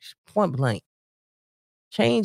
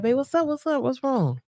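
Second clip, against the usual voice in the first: higher sugary caring tone; sweet concern; 9 semitones higher than usual. Retold or imitated. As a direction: coax your partner gently, all concern. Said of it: "wouldn't it be nice to be like".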